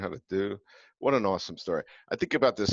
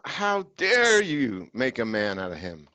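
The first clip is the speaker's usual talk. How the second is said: mock outrage; 3 semitones higher, 5 dB louder than usual. Mock outrage at Teresa's parenting.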